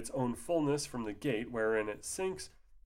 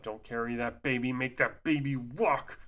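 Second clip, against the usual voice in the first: mock lecture to a baby; mocking scold. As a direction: play the petty rule-keeper. Mocking rule about carrying babies.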